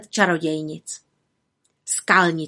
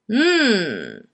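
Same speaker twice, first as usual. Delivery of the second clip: thoughtful hum. A narrator's reading. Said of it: "zamyslela se vrchní čarodějnice".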